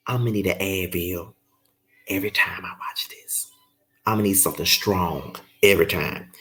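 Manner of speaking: low, soft, half-whispered sigh of defeat; drained aside to the viewers; worn-out mutter. Real, not acted. Weary aside about the show.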